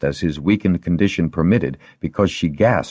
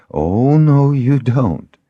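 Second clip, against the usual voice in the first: firm forbidding; 9 semitones higher, 5 dB louder, slower than usual. A narrator's reading. Stops patient reaching for compress.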